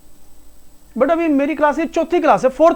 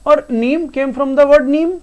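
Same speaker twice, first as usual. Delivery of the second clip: slow explanation; much slower than usual. Shown as a demonstration. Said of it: "explains the root slowly".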